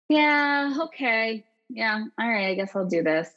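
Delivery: a reluctant, unconvinced yeah that trails off; inauthentic yes. Shown as a demonstration. Mom showing her kids a yes she doesn't mean. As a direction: say yes without meaning it. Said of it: "something inauthentic there".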